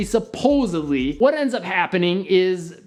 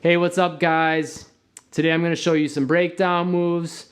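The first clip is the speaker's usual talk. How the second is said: bland robot-like intro. Retold or imitated. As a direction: say it bored, no energy, like a robot. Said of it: "that was my energy".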